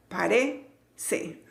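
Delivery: "parece" broken up, stress on RE; stress on second syllable. Shown as a demonstration. Teacher splitting a word to find its accent, stress on RE. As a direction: break "parece" into pieces, leaning on RE. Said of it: "tiene el acento en la segunda sílaba".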